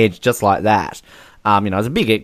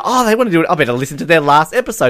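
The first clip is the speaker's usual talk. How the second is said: imagined guest; 5 semitones higher, faster than usual. Pretend. Imagines guest reacting to email.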